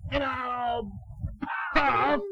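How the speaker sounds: loud, slow, huffing big bad wolf; blustering wolf threat. Father reading to his child, booming the wolf's huff and puff. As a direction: puff each word out like a bully.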